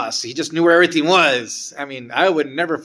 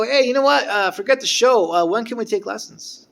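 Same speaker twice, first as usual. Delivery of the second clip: eager request; 7 semitones higher, 4 dB louder than usual. Retold or imitated. Narrator quoting his own excitement.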